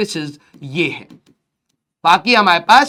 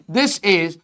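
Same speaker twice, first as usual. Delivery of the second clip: each word drawn out slowly; slow emphatic teacher dictation; 4 semitones lower, much slower than usual. Shown as a demonstration. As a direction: spell it out word by word for the class. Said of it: "ये वाला सरफेस".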